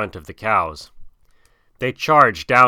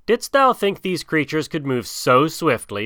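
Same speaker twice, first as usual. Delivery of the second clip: calling out; 4 semitones higher than usual. Acted. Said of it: "Mowgli called".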